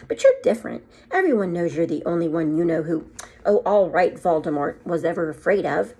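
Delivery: a stern headmistress, put out; stern witch. Acted. McGonagall voice.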